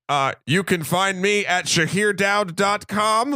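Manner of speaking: slow, lightly voiced deadpan imitation of his friend; a mild monotone take on his co-host, slowly; imitating Shahir. Host voicing his sick co-host's plug, mild slow monotone imitation. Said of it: "I'm gonna do your voice".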